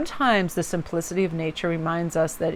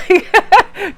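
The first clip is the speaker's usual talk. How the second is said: high, bursting laugh on the word like; 13 semitones higher, 7 dB louder than usual. Real, not acted. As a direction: laugh it out, pitch jumping up. Laughing mid-story about nail polish.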